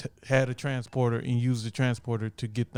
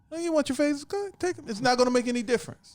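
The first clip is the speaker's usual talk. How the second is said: high falsetto voice; 12 semitones higher, faster than usual. Retold or imitated. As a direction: toss it off in a squeaky falsetto.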